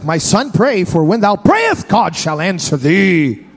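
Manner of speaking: low, slow biblical pronouncement; solemn King James father. Pretend. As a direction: intone like a holy patriarch. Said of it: "I wish it was like".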